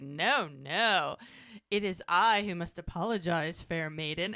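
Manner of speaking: lightly put-on old English accent; courtly apology in a hint of medieval English accent; mock medieval English accent. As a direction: imitate a fair-knight English accent, lightly. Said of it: "he's doing it in the accent".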